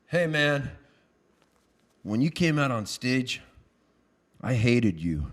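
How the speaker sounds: low, slow-spaced, blunt; deadpan confession. Retold or imitated. Fan at merch booth to the singer, deadpan. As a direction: let it land after long pauses.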